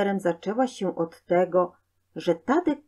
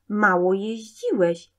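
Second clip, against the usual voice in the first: lightly squeaked little voice; tiny creature piping a complaint; squeaking imp; 2 semitones higher than usual. A narrator's reading. Imp behind boy's ear complains, lightly squeaky. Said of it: "pisnął Cudaczek za uchem".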